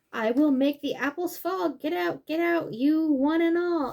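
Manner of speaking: bossy mama bear, lightly voiced; storybook character. Mama bear chasing the animals out, lightly voiced.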